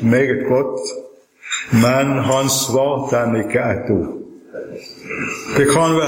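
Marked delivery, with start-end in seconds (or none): 1.8-4.2 slow, weighty stress on "ikke ett ord"; underlined sentence. Shown as a demonstration. Preacher underlining the key verse for listeners, slow and emphatic. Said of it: "sette en kraftig strek under en setning".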